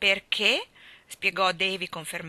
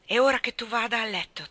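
curt cutoff; 4 semitones higher, 5 dB louder than usual. Acted. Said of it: "tagliò corto Anna".

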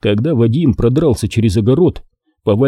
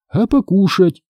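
high offended auntie calling out; aggrieved auntie cry, pitched well up; hurt call; 9 semitones higher than usual. A narrator's reading. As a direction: call after him, hurt and shrill-high. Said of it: "обиженно прокричала".

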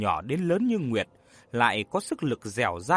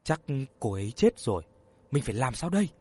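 frightened; 2 semitones lower, faster than usual. Acted. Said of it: "Khang sợ hãi nói".

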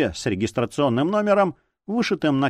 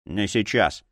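grumbling; 4 semitones lower, slower than usual. Acted. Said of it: "проворчал детектив".

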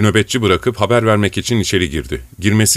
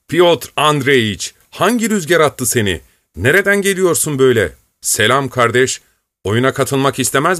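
hearty Zurin; 5 semitones higher than usual. Acted. Zurin joyfully greets old friend.

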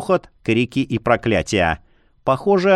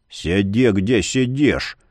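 low rumble; 3 semitones lower, slower than usual. Acted. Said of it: "глухо пророкотал он".

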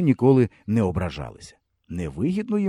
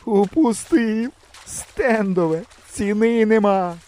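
slow, high wailing lament in a different voice; mock sobbing; 9 semitones higher, slower than usual. A narrator's reading. The hunter wails over his lost gun, slow and high. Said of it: "проридав".

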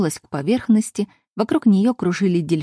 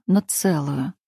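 usual speaking voice

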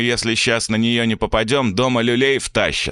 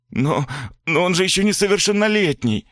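timid plea; 10 semitones higher than usual. A narrator's reading. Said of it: "робко вступилась мать".

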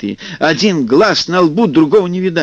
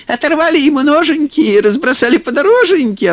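very high, gloating sing-song; gleeful kikimoras; 12 semitones higher than usual. A narrator's reading. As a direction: crow it like delighted swamp sprites. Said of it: "обрадовались кикиморы".

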